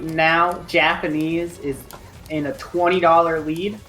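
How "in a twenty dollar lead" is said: talking through hiccups; words broken by hiccups. Real, not acted. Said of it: "You really do have hiccups".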